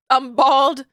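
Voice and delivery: half-laughing yell of despair; mock shout.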